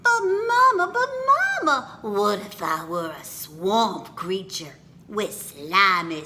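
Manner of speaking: put-on child pleading with mama, ending in a whispered sob; excited child. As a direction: make the ending sound dire and sad.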